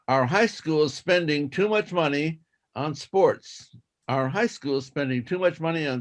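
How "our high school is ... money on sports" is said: slow careful reading. Shown as a demonstration. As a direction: read it slowly, word by word. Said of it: "do it twice".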